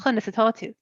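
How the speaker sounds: Waterford Irish, said evenly; southern Irish pronunciation. Shown as a demonstration. Repeating "how are you" for a learner, southern Irish accent. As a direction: give it your own southeast Irish accent. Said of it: "Because I would say".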